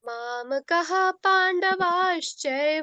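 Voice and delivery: slow, measured chant for pupils to echo; slow lead recitation. Shown as a demonstration. Teacher leading pupils in echo recitation, slow and measured. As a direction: lead the line slowly, leaving room to repeat. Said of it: "आपको बोलना है मेरे साथ".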